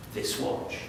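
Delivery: very soft, nearly voiceless; hushed reverence. Acted. Veteran showing a boy his father's watch, hushed. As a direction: let the words fall away softly. Solemn pause on the heirloom.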